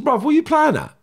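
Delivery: re-enacted angry shout, toned down; retold irate confrontation. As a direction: confront him, voice pitched right up. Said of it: "screaming at him when I'm talking".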